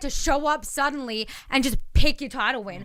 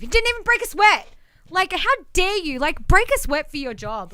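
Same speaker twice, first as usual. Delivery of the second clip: genuinely pissed off; 4 semitones higher than usual. Real, not acted. Co-host ranting that Lesnar never works hard, indignant. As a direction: vent at him like he insulted the job. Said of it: "sorry, I just get really pissed".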